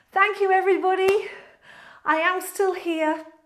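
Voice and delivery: winded, catching breath. Ending a live stream, the host thanks viewers: out of breath. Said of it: "I'm a bit out of breath".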